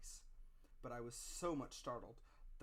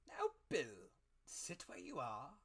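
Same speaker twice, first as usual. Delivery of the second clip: loud then high, slow command; commanding blind beggar; 5 semitones higher, 6 dB louder, slower than usual. A narrator's reading. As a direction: pin him down with a cold order. Blind beggar confronts captain.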